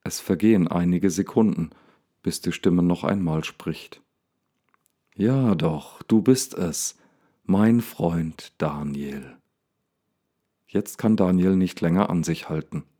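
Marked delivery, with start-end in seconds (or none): 5.2-9.4 a hint of friendly lion, slow at the end; almost friendly. The lion greets Daniel, mildly friendly. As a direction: let the warmth creep in. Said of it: "Die Stimme klingt fast freundlich".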